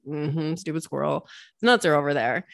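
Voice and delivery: low, muttered eye-roll at the squirrel; eye-rolling scorn. Pretend. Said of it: "rolling your eyes".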